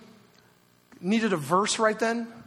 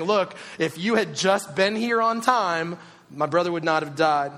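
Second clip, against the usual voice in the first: blaming. Retold or imitated. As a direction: lay the blame on every word. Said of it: "a little bit of blame is being placed".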